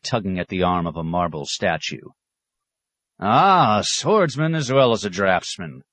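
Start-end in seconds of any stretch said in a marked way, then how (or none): 3.2-5.8 taunting. Acted. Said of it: "taunted the poet".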